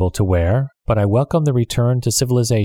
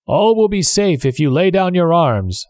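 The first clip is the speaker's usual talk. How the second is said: shouted; 7 semitones higher than usual. Acted. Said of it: "the captain shouted".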